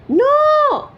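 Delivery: high, loud panicked shout. A narrator's reading. Woodcutter shouting to stop his wife's wish. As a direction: cry out to stop her. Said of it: "shouted the woodcutter".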